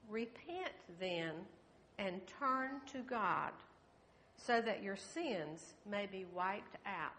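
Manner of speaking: slow, deliberate verse reading; scripture reading. A narrator's reading. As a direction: read the verse out slowly, phrase by phrase. Reads a Bible verse aloud.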